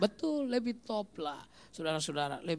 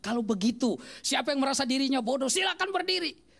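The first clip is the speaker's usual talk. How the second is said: put-on irritated teacher daring a child to stand; annoyed teacher challenge; 4 semitones higher than usual. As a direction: push the dare higher on each line. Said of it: "Lalu saya datang agak jengkel".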